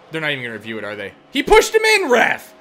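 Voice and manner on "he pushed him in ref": high, loud protest; real angry shout at the referee; outraged yell at the ref. Real, not acted. Yelling at the referee.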